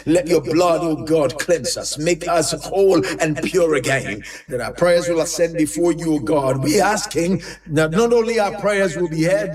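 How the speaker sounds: continuous, flowing prayer with rhythmic repeats; earnest pastor's prayer in an unbroken cadence; fervent prayer. Real, not acted. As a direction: pray aloud for the congregation, pressing on phrase after phrase. Leads congregational prayer.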